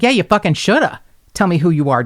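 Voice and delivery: high, emphatic retold scolding; angry retort. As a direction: scold him, indignant. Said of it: "my scream fest".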